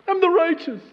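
high, loud mock delight; self-righteous glee. Reader casting himself as the righteous, gleeful high cry. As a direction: burst out with pride in yourself.

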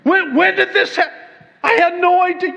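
high, loud, bewildered fluster; stammering mock alarm, voice way up; mock-panicked God. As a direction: act out a comically shocked God caught off guard. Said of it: "never imagined God in heaven going".

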